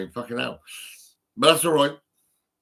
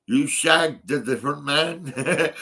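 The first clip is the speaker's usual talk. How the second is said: laughing accusation; slower than usual. Real, not acted. Teasing accusation to ex-partner.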